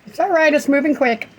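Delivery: lifted, soothing pet-talk pitch; reassuring. Real, not acted. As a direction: reassure them in a high voice. Reassuring her animals in storm.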